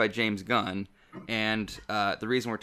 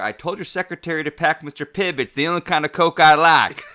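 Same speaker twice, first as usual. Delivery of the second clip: loud, higher voice for the film line; movie quote voice; 5 semitones higher, 9 dB louder than usual. Retold or imitated. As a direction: deliver it like a character in the film. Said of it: "top of the show quote".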